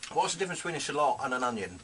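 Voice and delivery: words round a mouthful of food; mouth full. Real, not acted. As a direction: still chewing, mouth full. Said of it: "excuse me talking with my mouth full".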